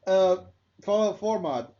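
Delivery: loud, high, abrupt segue; mock segue. Host jokingly forcing a segue back to wrestling, loud and high. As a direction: blurt a clumsy topic change loudly. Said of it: "your other fucking famous segue tactics".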